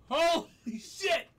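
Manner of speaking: high, slow, drawn-out swearing; real post-scare shock; shocked exclamation. Real, not acted. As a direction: reel from the fright, stretching each word. Reeling from the jump scare.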